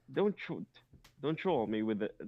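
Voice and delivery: put-on stumbling try at a British accent; faltering British accent. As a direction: attempt a British scolding and falter. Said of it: "I, I can't do it".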